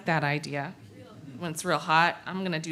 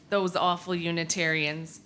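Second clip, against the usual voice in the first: softer, with a chuckle in the voice; wry laugh; 4 semitones lower, 5 dB quieter than usual. Shown as a demonstration. Storyteller chuckling over the title to the congregation. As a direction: say the title again as an amused joke. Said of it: "Can you imagine?".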